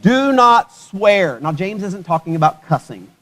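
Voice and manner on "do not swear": "do not swear" very slow, "not" hit hard; stress on not. Shown as a demonstration. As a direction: spell out "do not swear", leaning on "not".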